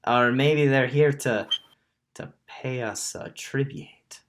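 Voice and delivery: lightly voiced Warforged, accent slightly off. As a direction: carry on with the imperfect character accent. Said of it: "this is not the accent I wanted".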